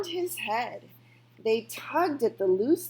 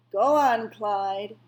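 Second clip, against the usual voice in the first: loud urging; 7 dB louder, slower than usual. A narrator's reading. Old woman urging the rabbit.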